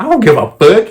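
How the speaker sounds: high, loud mock mom yell. Mom shouting back at the tattling sister, mock yell. Mom yelling in retold fight.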